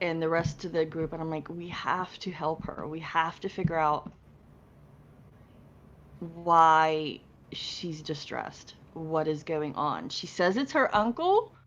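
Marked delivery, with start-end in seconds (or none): 1.5-10.1 hushed whisper under the breath, drawn-out "why". Leaning in toward Charles and the rest of the group, whispering.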